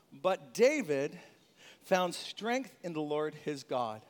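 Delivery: each word slow and weighted; slow, deliberate verse reading; slow scripture reading. Shown as a demonstration. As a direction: read it slowly, letting it land. Reading key verse slowly.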